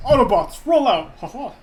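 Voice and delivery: loud robot leader's rallying call; booming battle order; Optimus Prime. Acted. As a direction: call it out like a heroic commander. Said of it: "I know Optimus Prime says".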